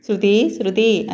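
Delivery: slow, gentle calling of her name; softly waking her. Acted. Muraridevudu gently wakes Shruti from a nightmare, slow and soft. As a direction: coax her awake, slowly and tenderly. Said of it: "మృదువుగా తట్టి లేపాడు".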